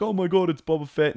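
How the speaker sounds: high, loud mock fanboy excitement; freaking-out fanboys. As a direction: imitate fanboys losing it. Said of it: "a lot of people freaked out".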